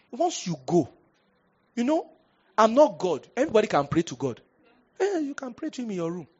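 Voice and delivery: high, loud preaching burst, rising to a cry; preaching shout. Retold or imitated. Preaching to the lady.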